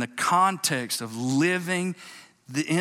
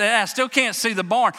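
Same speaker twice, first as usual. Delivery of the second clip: higher and louder, calling across a distance; hollering boy; 9 semitones higher, 6 dB louder than usual. Retold or imitated. Boy in the dark yells to his father: a high holler. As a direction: holler it back toward the house. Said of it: "he hollers back at his daddy".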